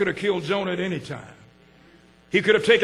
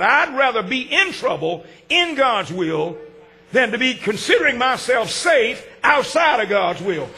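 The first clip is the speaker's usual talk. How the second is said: preaching build; 2 semitones higher than usual. Acted. Preaching at full force.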